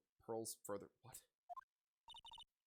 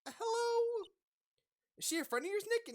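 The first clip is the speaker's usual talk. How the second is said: put-on much higher, louder young woman's voice; voiced Adrian; 6 dB louder than usual. Adrian interrupting Nick, high put-on woman's voice. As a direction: play the nervous assistant, pitched high.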